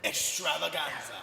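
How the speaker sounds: slow, drawn-out showy reveal; slow ta-da delivery; showy flourish. Pretend. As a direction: stretch every syllable out with a flourish. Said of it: "I change the tone each time".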